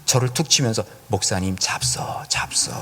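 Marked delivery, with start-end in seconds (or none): 1.1-2.7 whisper. Retold or imitated. Officer urges chaplain to drink.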